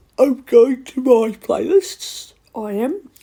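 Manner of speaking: loud, slow words stretched out by a yawn. Browsing YouTube at the end of the day, the speaker talks while yawning. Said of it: "Sorry for yawning".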